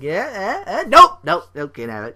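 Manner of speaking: high teasing nope nope; mocking refusal. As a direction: taunt like snatching a carrot away. Mocking WWE booking.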